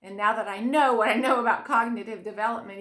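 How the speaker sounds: usual speaking voice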